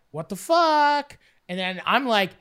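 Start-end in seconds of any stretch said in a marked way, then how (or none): 0.1-1.2 higher, slow stunned exclamation; slow, raised disbelieving what the fuck; shocked what the fuck. Retold or imitated. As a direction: drag it out in disbelief. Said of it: "And we're like".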